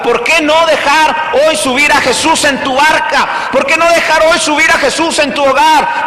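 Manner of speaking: rising, insistent appeal with a shout; fervent preaching. Acted. Pastor urging the congregation to let Jesus aboard, fervent. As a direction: press the question on the crowd, building.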